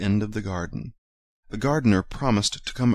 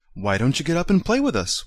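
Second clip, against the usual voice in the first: wild rabbit; 7 semitones higher than usual. A narrator's reading. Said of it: "one of them asked".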